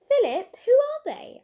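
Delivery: curious shout across the group; eager call. Acted. Girl calls out curious.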